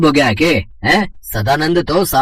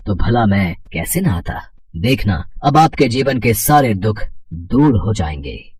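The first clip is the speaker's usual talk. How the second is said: calm divine blessing; 4 semitones lower than usual. Acted. Hanuman blesses the priest.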